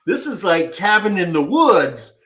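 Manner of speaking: half-laughing nervous outburst; laughing while freaked out. Real, not acted. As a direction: laugh through the panic as you relive it. Retelling creepy stalker scene.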